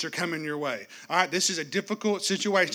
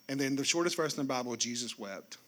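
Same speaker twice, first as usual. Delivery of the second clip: much softer and lower, Jesus wept; hushed reading; 7 semitones lower, 8 dB quieter than usual. Real, not acted. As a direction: drop to a reverent near-hush. Reading shortest verse hushed.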